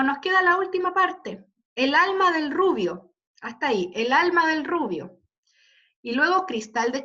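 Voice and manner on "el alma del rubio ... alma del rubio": "el alma del rubio" with the beat on "al" and "ru"; rhythmic stress. Shown as a demonstration. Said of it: "¿Dónde van los acentos?". (recitado marcando "al" y "ru")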